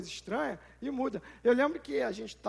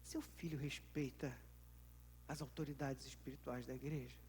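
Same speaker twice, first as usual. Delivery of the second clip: hushed question; 8 semitones lower, 16 dB quieter than usual. Real, not acted. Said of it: "sudden quiet question".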